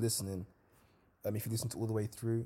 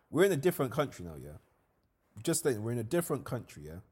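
louder and fast, pushy; hammed-up vendor pressing his point; mock argument; 2 semitones higher, 4 dB louder, faster than usual. Seller telling the friend to pay, loud fast mock voice.

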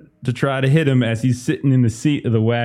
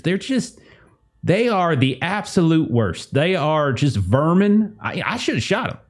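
hick farmer voice; 4 semitones higher than usual. Acted.

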